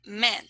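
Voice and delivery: "man" with a vowel like Spanish E. Shown as a demonstration. Teacher compares with Spanish, E-like vowel in "man". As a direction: say "man" close to "men". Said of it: "the Spanish E".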